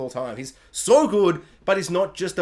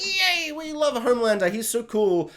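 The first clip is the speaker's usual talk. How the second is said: high whooping fan; hammed-up adoring fan; mock fan cheer; 5 semitones higher than usual. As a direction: cheer like a starstruck crowd. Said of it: "crowd of yelling Homelander fans".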